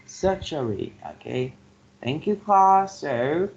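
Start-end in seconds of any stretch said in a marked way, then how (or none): 0.1-0.9 surgery stressed on its first syllable, SUR. Shown as a demonstration. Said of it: "the first syllable receiving the stress".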